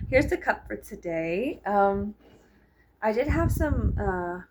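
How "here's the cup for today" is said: breathy whispered aside. Real, not acted. Vlogger showing her drink, whispered. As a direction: let it out as a hush.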